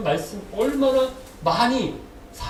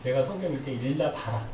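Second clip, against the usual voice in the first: mock sulking in a lowered voice; sulky grumble; 6 semitones lower than usual. Preacher acting a believer let down after praying hard, mock sulking. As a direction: imitate a huffy believer, dropping low at each threat. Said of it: "이렇게 삐져요".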